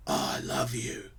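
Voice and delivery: put-on drunk old man. Drunk man answers his helper, drunken affection. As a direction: drawl it out like a happy drunk.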